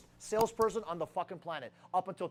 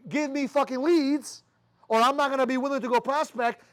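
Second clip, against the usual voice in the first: mock demanding recruit; 3 semitones higher, 5 dB louder than usual.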